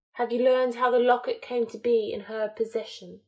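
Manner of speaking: lightly voiced menacing dark lord, brooding; a hint of Voldemort. Voldemort brooding aloud to his followers, lightly cold and menacing.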